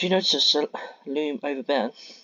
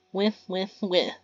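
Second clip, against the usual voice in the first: impatient demand; 6 semitones higher than usual. Acted. Mia cutting Ben off.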